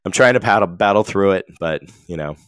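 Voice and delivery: stuffy nose, nasal and tired. Real, not acted. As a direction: speak through a blocked nose. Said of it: "You sound very nasally".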